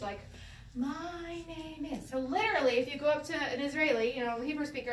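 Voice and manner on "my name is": slow, higher, carefully spaced words; formal, kindergartenish. Shown as a demonstration. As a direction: recite it like a kindergarten lesson. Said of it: "very, like, formal, like, kindergartenish".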